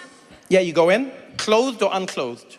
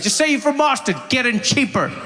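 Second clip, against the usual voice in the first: higher, breezy imitation of their tip; mock quote of the advice; 6 semitones higher than usual. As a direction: parrot the advice back in a higher, teasing voice. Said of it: "So you're like".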